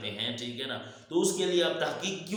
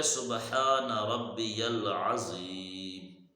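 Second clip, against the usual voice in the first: showing how it's done; 3 semitones lower, much slower than usual. Shown as a demonstration. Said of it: "ہم کیسے پڑھتے ہیں؟".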